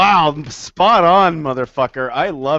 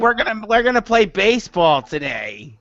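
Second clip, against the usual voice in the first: gym teacher voice; 5 semitones higher than usual. Acted. Playing the gym teacher lady puppet, higher and cheerful. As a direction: announce it like a coach to kids.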